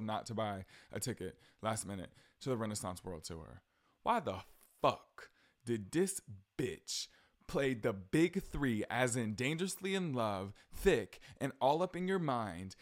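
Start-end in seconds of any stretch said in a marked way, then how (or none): 4.0-8.8 outraged. Real, not acted. Outraged rant, drawn out.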